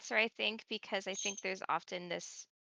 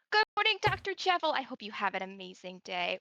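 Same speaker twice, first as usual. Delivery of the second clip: cheery in-character greeting; 2 semitones higher than usual. Shown as a demonstration. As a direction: greet the doctor brightly, in character. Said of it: "the very basic things of going like".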